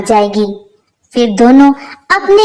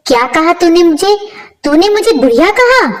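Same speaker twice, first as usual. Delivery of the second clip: indignant, rising higher in disbelief; outraged mother-in-law; 6 semitones higher than usual. Acted. Mother-in-law, insulted by her daughter-in-law, indignant and higher. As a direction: demand it back, offended and high. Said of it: "Hema पर गुस्सा हो जाती है".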